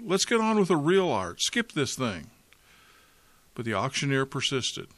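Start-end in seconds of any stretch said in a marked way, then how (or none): 0.0-2.3 shouted. Acted. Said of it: "a voice in the back of the room shouted".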